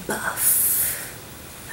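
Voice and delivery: slow, loud mock announcement of the shade name; playful slow shade announcement; silly announcer voice. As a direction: ham up the name like a presenter. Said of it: "I don't know why I felt like doing that".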